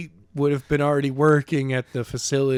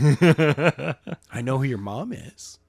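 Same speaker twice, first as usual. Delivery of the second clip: laughing through the line; much slower than usual. Pretend. Acted villain line, laughing.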